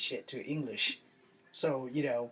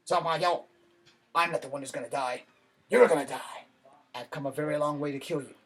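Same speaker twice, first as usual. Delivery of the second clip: dubbed kung fu line. Retold or imitated. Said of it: "It's like".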